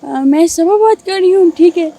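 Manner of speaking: lightly voiced girl asking for money; a hint of a sweet young woman pleading; girl's voice. Prankster calling his cousin as a girl named Saba. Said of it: "لڑکی کی آواز میں مجھے سنائیں".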